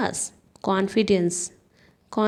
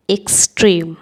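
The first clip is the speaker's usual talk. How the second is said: एक्सट्रीम said out loud and lower, with a falling end; said louder; 4 semitones lower, 5 dB louder than usual. Shown as a demonstration. Teacher drilling vocabulary, repeating the word loudly for the class. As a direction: after the whisper, give एक्सट्रीम full voice. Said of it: "teacher repeats word in two takes".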